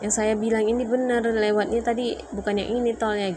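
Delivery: she's sure she's right; retold insistence. Retold argument with husband.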